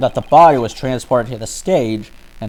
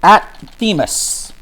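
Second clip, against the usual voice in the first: loud, slow, higher; loud drawn out; 8 semitones higher, 6 dB louder, slower than usual. Real, not acted. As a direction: stretch it out loudly.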